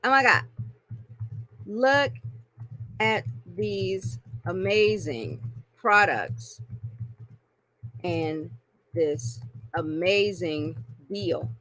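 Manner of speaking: mock spammy sales pitch. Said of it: "They say".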